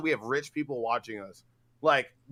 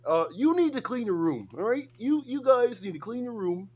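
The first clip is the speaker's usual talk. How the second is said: Jordan Peterson impression; 5 semitones higher than usual. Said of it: "I'm starting to sound like Jordan Peterson".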